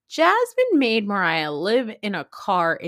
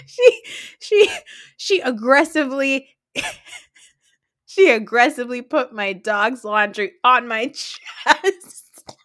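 laughing; 2 semitones higher, 4 dB louder than usual. Real, not acted. Laughing while retelling a quote.

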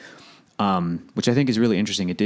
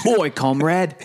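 fake Russian accent; 6 semitones higher, slower than usual. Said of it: "their attempt at Russian".

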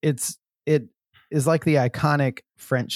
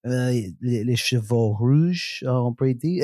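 French accent. Shown as a demonstration. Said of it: "doing the French voice".

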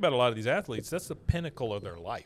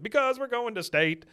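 excited cheer; 11 semitones higher, 5 dB louder than usual. Retold or imitated. Bill finishes the song.

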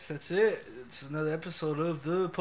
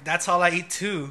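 louder, camp imitation of a friend; camp mimicry; 7 dB louder than usual. Homie playing along with the gluten-free joke, loud camp mimicry. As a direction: play up a campy agreement. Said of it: "he said it all, like, gay".

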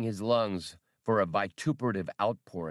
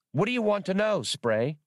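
high, eager little droid voice; childish droid voice; 10 semitones higher, 3 dB louder than usual. Acted. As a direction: chirp it like a know-it-all kid robot. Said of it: "in his childish voice".

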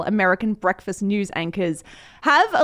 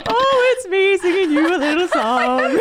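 higher, laughing sing-song friend voice; imitating Sarah; 5 semitones higher, 3 dB louder than usual. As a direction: parrot a friend's cheeky voicemail. Repeating friend's voicemail line.

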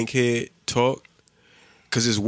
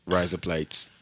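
slow mock Aussie phrase; 4 semitones lower than usual. Shown as a demonstration. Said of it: "sound like razor blades in Australia".

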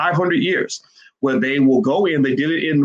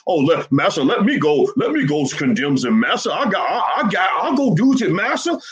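mocking servile voice; 5 semitones higher than usual. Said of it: "and say".

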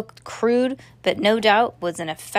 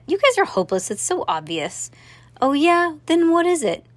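bickering; 8 semitones higher, 3 dB louder than usual. A narrator's reading. Kids bicker over riddle.

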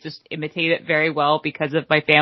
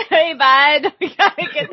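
high-pitched comic Minnesotan, giggling; mock Minnesotan local; Minnesotan accent; 8 semitones higher than usual. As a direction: hail a pal in hammed-up Minnesotan. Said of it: "a Minnesotan accent".

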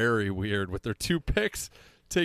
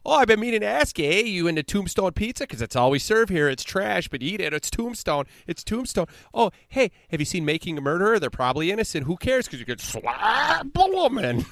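high, loud hammed-up Wisconsin yokel; mock Wisconsin accent; 9 semitones higher, 5 dB louder than usual. Bears fan mocking Green Bay locals in a hammed-up Wisconsin accent. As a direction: lampoon a cheesy Wisconsin local, eh.

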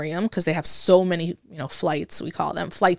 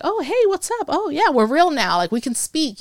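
mock excited greeting; 8 semitones higher than usual. Recruits finally free to chat.

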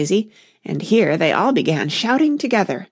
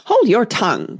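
sharp cry; 4 semitones higher than usual. Acted. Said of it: "cried the Tiger Lily".

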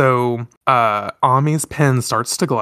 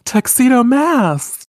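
much higher, louder, slow lovestruck call; swooning cry; 12 semitones higher, 5 dB louder, slower than usual. Retold or imitated. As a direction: call his name like a smitten heroine. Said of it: "Sailor Moon's like".

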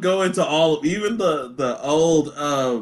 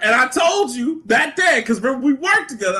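ordinary talk

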